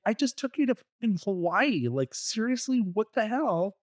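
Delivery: mock-outraged husband, voice shooting up; exasperated outburst. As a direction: vent like the trip meant nothing.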